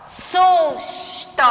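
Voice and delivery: SUSTO with a high, lengthened SUS; stress on first syllable. Shown as a demonstration. Teacher repeating for pupils, SUS drawn out in "Susto". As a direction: hold SUS, then release the ending of "Susto".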